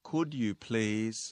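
slow teaching delivery with gaps before "slow" and "down"; slow model phrase. Shown as a demonstration. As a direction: lead learners through it, chunk by chunk. Teacher models phrase a second time. (พูดนำช้าๆ ทีละท่อน)

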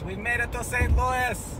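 high, slow, drawn-out announcement; playful high-pitched proclamation; Pocky. Pretend. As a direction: stretch it out in a high character voice. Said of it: "as Pocky says".

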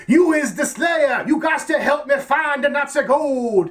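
a playful mock-yelling sergeant; hammed-up sergeant. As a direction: ham up a bossy sergeant demanding help. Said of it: "he's like".

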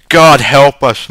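slow, loud moan of pity; long-suffering pub lament. A narrator's reading. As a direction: lament it pityingly, drawn out. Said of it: "moaned one".

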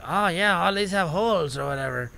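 lightly attempted English accent drifting Irish; English accent that comes out Irish. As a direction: have a half-hearted go at English. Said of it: "I was gonna do an accent".

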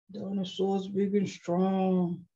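slow, put-on mighty dinosaur voice; big strong voice. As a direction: read it slowly as a strong dinosaur. Voicing strong dinosaurs from book.

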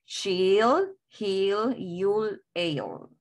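"She'll, he'll, you'll, I'll", one syllable apiece; a single separate beat for each of "She'll, he'll, you'll, I'll"; una sola sílaba. Shown as a demonstration. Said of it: "una sola sílaba". ("She'll, he'll, you'll, I'll", una sílaba cada una)

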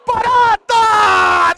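high, loud, stretched scream of the name; drawn-out yell. Real, not acted. Streamer yelling at his goalkeeper, long drawn-out scream. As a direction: bellow the name long and slow.

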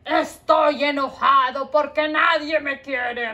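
loud mock-angry shout; hammed-up grumpy puppet; angry heart. Heart puppet answers the teacher in a loud mock huff. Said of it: "¿Por qué estás enojado?".

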